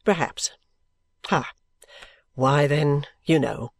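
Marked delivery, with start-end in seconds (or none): 0.0-0.5 low, musing character voice; still considering. A narrator's reading. Richard weighing his friend's objection, still considering. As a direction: weigh it in a lower voice. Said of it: "still considering".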